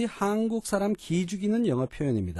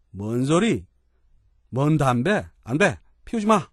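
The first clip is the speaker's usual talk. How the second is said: annoyed refusal; 4 dB louder than usual. Acted. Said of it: "라는 생각이 속으로 드시면".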